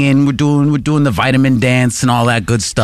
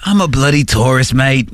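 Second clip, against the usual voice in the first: mock Australian accent. Co-host showing how the driver sounded, mock Australian accent. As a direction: fake Aussie tourist. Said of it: "that's how he sounded".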